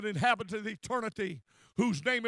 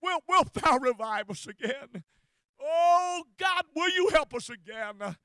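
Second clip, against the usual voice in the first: pleading cry, louder, with a high shouted Oh; crying out to God; 3 semitones higher, 3 dB louder than usual. Retold or imitated. Preacher voicing David's plea, pleading cry. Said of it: "God, he cried".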